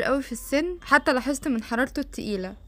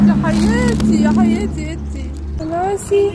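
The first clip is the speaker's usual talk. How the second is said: high, loud cooing at a cat; gushing endearment; 5 semitones higher, 7 dB louder, slower than usual. Real, not acted. Woman calls sweet names to a stray cat, loud gushing coo. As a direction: coo loudly, pitched well up.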